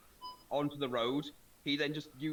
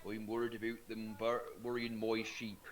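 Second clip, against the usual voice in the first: grumpy English farmer; 4 semitones lower than usual. Retold or imitated. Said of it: "they'd be more like".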